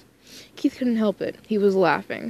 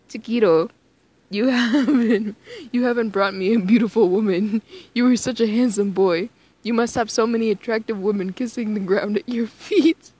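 a light mock Spanish grandmother accent, a bit louder; a hint of a fussing Spanish grandma; grandmother's accent; 3 dB louder than usual. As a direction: lightly play a doting Spanish abuela. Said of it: "switched into a different accent, one used to mimic his grandmother".

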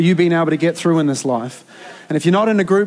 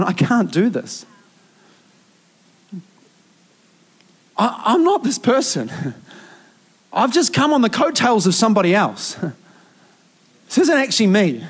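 retold crying; 4 semitones higher than usual. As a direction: relive sitting under the desk crying, half laughing at yourself. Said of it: "and I'm crying".

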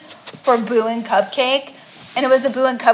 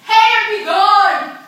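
mock spell voice; 8 semitones higher, 3 dB louder, slower than usual. Mock banishing the hater.

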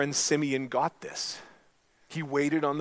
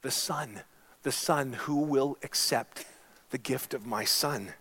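voice of the Father. Acted. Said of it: "the voice of the Father asking".

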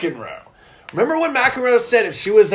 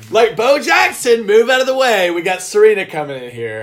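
hammed-up announcer mockery; mock fanfare; 2 semitones higher, 4 dB louder than usual. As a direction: herald her arrival in mock grandeur. Mocking fanfare for Serena.

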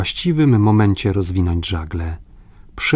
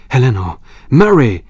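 loud call, second name higher; 4 semitones higher, 7 dB louder than usual. A narrator's reading. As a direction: shout names to summon help. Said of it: "zawołał Glenarvan". (głośne wołanie po imieniu)

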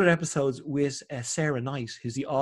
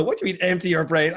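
baffled, louder retort to "empty your brain"; exasperated; 3 semitones higher, 5 dB louder than usual. Retold or imitated. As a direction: push back in disbelief at "empty your brain". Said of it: "And you go".

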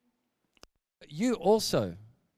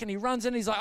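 ordinary delivery, nothing marked

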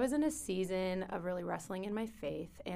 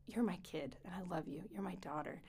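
soft whisper; 8 dB quieter than usual. Retold or imitated. God's tender words retold.

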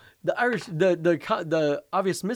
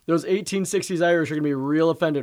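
DiCaprio impression; 4 dB louder than usual. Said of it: "I'm doing an impression of DiCaprio".

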